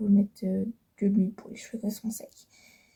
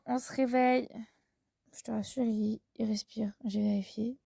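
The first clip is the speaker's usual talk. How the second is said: whispering over a crib; 6 dB quieter than usual. Real, not acted. Man still asleep beside her.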